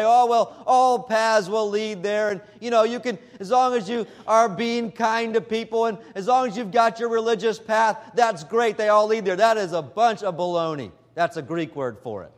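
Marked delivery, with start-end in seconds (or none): 0.0-9.3 lightly mocking, higher, breezy easygoing voice; mock the all-paths crowd with a light sing-song; mocking Oprah-type. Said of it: "Oprah Winfrey and others out there will say".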